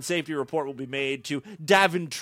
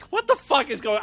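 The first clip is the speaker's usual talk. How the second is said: baffled; 9 semitones higher than usual. Real, not acted. Baffled by the news story.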